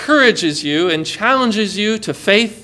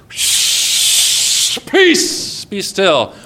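whispered hush; much slower than usual. Acted. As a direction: hush the hurricane like a child. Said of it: "goes out to Hurricane Isaac ... and says".

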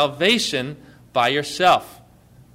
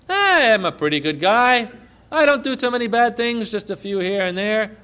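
lightly voiced breezy man on the street, pitched higher; a hint of a self-satisfied good guy, higher; self-assured average guy; 6 semitones higher than usual. Pastor voices a man on the street, casually self-assured.

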